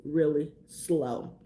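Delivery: drawn-out slow mock drawl. Shown as a demonstration. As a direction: stretch it out lazily. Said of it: "people from the South talk really".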